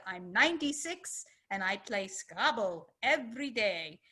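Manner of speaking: a light imitation of an old German lady's accent; hint of a German accent, an old woman boasting to the speaker. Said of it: "in a very heavy German accent".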